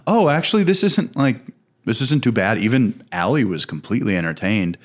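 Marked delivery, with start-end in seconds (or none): 0.1-2.6 high, surprised realization; a surprised "not bad"; pleasantly surprised. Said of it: "and I was just like".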